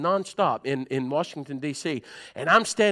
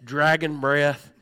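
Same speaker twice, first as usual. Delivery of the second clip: slow emphatic aside; 4 dB louder, slower than usual. Real, not acted. Joke about bad breath up close.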